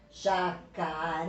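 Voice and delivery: "Jacaré" slow, with a long held final RÉ; teacher's slow demo of "Jacaré", ending stressed; stress on last syllable. Shown as a demonstration. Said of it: "A última sílaba é mais forte".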